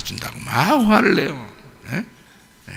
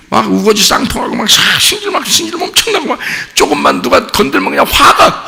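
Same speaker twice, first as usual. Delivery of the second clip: high-pitched, worked-up imitation of a hothead; hammed-up irritable outburst, pitch shooting up; mock temper; 12 semitones higher than usual. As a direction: act out flying off the handle at the slightest touch. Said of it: "승질 나니까".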